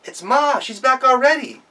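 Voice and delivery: put-on high, eager child voice; thrilled mom is home; little goat cheering; excited son.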